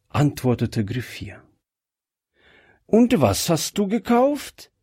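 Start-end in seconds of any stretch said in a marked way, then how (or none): 2.8-4.7 high, inquisitive question with rising end; nosy wife's curious question. A narrator's reading. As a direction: ask eagerly, lifting the pitch. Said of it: "fragte neugierig seine Frau".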